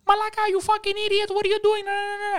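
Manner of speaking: very high, fast scolding tirade; mock cussing out. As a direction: imitate an owner chewing out a waiter. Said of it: "starts cussing out".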